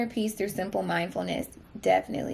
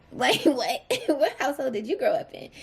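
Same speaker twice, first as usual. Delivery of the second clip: incredulous laugh, pitched up; laughing disbelief; 4 semitones higher than usual. Real, not acted. Mocking people who skip leftovers.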